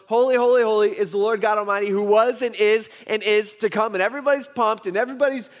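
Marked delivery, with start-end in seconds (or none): 0.1-3.9 raised, louder mock shout of angels; hammed-up heavenly chant, only partly yelled; imitated screaming praise. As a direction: call it out like an exultant crowd of angels. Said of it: "they're all screaming at the top of their lungs".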